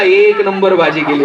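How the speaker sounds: low, drawn-out compliment through a grimace; imitating a husband's reluctant compliment; grimacing forced praise. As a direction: praise it with a twisted mouth, slowly. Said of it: "तोंड वेडं वाकडं करत बायकोला म्हणला".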